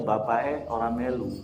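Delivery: Javanese-flavoured Indonesian; a light Solo Javanese accent. Shown as a demonstration. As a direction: say it the Solo Javanese way, lilting and soft. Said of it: "Kan kalau dalam bahasa Jawa Solonya".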